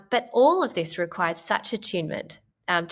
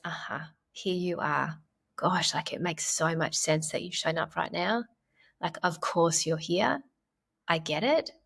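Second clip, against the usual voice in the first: soothing self-talk; 4 dB quieter than usual. Shown as a demonstration. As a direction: gently welcome the worried part of yourself. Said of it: "You sound so nice".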